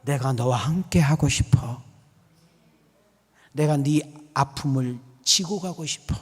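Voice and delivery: hushed, measured divine invitation; tender voice of the Lord; the Lord's gentle plea. Acted. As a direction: drop from preaching into an intimate appeal, pausing between phrases. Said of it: "뭐라고 한 줄 아십니까?".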